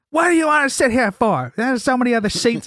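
high, loud imitation of an annoying woman; loud mock complaint. Annoying woman to man wanting her chair, loud mock complaint. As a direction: blare it out high, mocking her. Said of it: "she's just so fucking loud".

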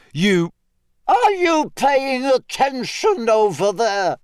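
high, slow call across the paddock; stern teacher projecting her voice; carrying teacher call. Acted. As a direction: call to the distracted boys. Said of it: "voice carried over to the boys".

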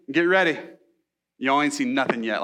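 a hint of Southern twang; Southern accent. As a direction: say it like a folksy Southern preacher. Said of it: "Jesus was Southern".

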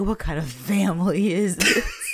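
hammed-up outraged cry; mock appalled shout. Snake appalled at Emma's news, mock appalled shout. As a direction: wail it in mock disbelief.

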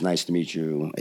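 retold as a kind, quiet greeting; kindly greeting. Girl comes up to meet the director, kindly. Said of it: "very kindly says".

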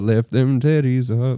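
slow, lightly imitated album ad-lib; quoted album line. Friend quoting a comedian's album line, slow imitation. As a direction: draw the words out like the record. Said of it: "It was, it was a rapper".

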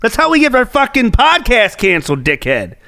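high-pitched, real annoyance; exasperated rant. Real, not acted. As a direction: chew out your co-host. Scolding co-host over copyrighted music.

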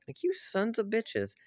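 real anger. Real, not acted. Cursing the studio, furious. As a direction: drag the insult out, fuming. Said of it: "I'm so angry".

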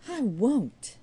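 a loud, flat-out refusal; firm loud refusal. A narrator's reading. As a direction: refuse loudly and firmly. Jude refusing firmly.

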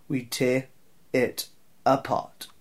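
slow drawl. Acted. Slogan dragged out slowly.

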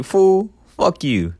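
high, slow, stretched-out mock insult; drawn-out insult. Podcaster mocking a rival influencer, slow, high and stretched. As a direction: drag out the comeback to mock him. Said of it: "And I'm like".

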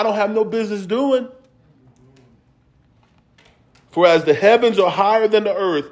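measured scripture reading that swells into full preaching. Acted. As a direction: preach it to the congregation, rising on the promises.

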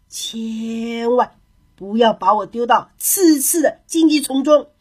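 slow, drawn-out storybook begging; resigned at first, then theatrically imploring; mock pleading. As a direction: plead like a wily captive, stretching key words. Captured hare pleads in a story.

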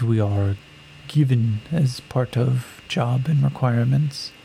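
very slow, deliberate formal speech; warrior woman. Acted. Greedy warrior woman tells Yakim they are property, slowly. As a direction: weigh each word while working an angle.

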